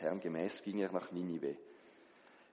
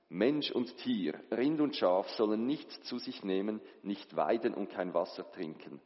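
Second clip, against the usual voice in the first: royal decree; 2 semitones higher than usual. Acted. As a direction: cry out the king's order. Royal decree proclaimed aloud.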